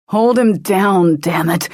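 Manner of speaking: gritted out. A narrator's reading. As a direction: force it out under strain. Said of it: "the agent gritted out".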